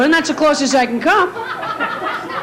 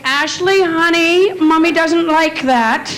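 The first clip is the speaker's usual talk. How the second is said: sweet pleading mom; much slower than usual. Retold or imitated. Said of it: "I heard the mother say".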